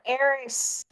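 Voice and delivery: put-on drawn-out name in Marlo's accent, not whispered. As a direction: say it slowly, keeping the Marlo accent voiced. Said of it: "I can't do the Marlo accent and whisper".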